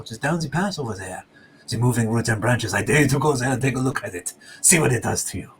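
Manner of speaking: lightly voiced smug explorer with a scoff; sanctimonious greeting, daring them on; mustached explorer Pierre. Game master voices the wounded explorer, sanctimonious and scoffing. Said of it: "He's like".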